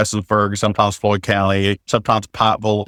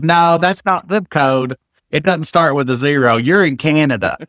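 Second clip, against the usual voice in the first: imitated grandmother-in-law; 5 semitones higher than usual. Grandmother-in-law disputing a zip code, stubbornly insistent. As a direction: mimic a stubborn relative laying down the facts.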